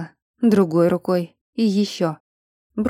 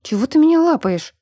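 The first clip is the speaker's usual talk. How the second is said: higher, louder indignant snap; outraged, higher and louder; 8 semitones higher, 3 dB louder than usual. A narrator's reading. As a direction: push him off with the words. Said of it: "возмущённо оттолкнула его".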